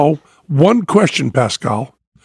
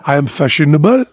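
mock French accent; 2 semitones lower, faster than usual. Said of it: "That's my French accent".

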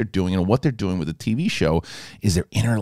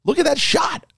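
much higher, thrilled; amazed. Real, not acted. Fan gushing over the shot, amazed and much higher.

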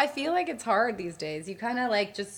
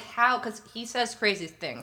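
talking while chewing; words around a mouthful of candy; mouth full; 2 semitones higher than usual. Real, not acted. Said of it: "Sorry, I'm eating my M&Ms".

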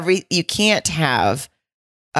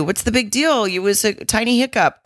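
lightly dismissive retold quote, higher; 6 semitones higher than usual. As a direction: brush it off as nothing, imitating her. Retells her flip to dismissive.

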